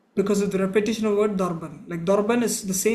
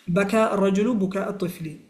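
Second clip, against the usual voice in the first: fast, fluent second run of بكى الرجل بكاء الطفل; quick repeat; much faster than usual. Shown as a demonstration. Teacher repeating the example for students at natural fast speed. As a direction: rattle it off quickly now. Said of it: "For example, مثال".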